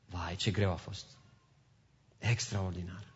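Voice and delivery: low, soft musing aloud; hushed, low inner remark; quiet reflection. Acted. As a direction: say it under the voice, as a private thought. Voicing thoughts about past troubles.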